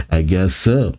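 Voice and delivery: light acted chuckle into the words; mock bashful little laugh; laughing reply. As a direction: chuckle first, then answer modestly. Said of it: "laughs, saying".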